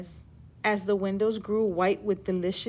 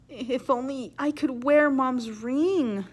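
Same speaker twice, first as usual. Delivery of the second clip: wistful wish; 3 semitones higher, slower than usual. Acted. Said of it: "she thought to herself".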